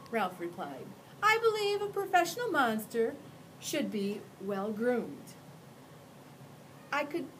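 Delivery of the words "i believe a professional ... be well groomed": high, prim and courteous monster; a well-mannered creature offering his arm; polite monster voice. Acted. Ralph answers.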